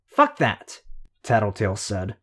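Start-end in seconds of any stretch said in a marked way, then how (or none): 0.1-0.8 sharp outburst. A narrator's reading. Defiant outburst against order.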